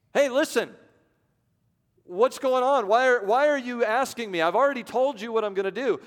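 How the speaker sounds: God calling out to a fretting Moses; exasperated God. Acted. God voiced, impatient with Moses.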